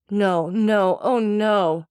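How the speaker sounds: high, loud, anguished no; horrified cry. Acted. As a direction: wail it in horror. Wife horrified, realizing her fate.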